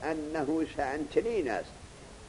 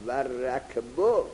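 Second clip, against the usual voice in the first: slow, deliberate verse reading; 3 semitones lower, much slower than usual. Shown as a demonstration. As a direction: read و رکبو word by word. Teacher reads the verse slowly. (خواندن آهسته و شمرده)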